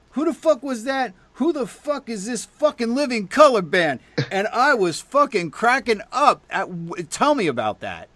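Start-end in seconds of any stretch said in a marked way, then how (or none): 0.1-4.0 high, incredulous mock exclaim; much higher, baffled who-is-that voice; imitating an amazed guy. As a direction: play the stunned listener asking who this band is. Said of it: "you hear a guy going".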